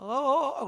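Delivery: high-pitched imitated "uh, uh, uh"; mock panicked wobble. Child struggling on a bicycle, mock alarm. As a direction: imitate a wobbling beginner's rising cry.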